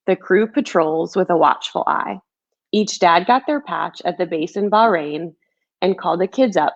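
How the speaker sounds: put-on gentle rhyming storybook read, like to a child; reading a picture book. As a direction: read it like a bedtime story for kids. Author reads her picture book aloud.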